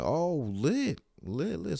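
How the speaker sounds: high, excited "lit"; hyped. Retold or imitated. Comic hears about the Hulu show, high and hyped. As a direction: squeal it out like you just got great news. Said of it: "I'm like".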